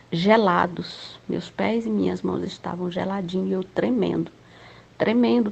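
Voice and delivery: usual speaking voice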